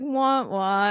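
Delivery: imitated sad-sack wah; mock droopy wah-wah; Charlie Brown wah-wah. Mocking Matt's helplessness, cartoon sad wah. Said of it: "He's very like Charlie Brown".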